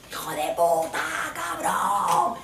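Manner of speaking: insulto chillado, agudo al final; mock yell. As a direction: grita histérica el insulto. Grita en la calle. (grito histérico en la calle)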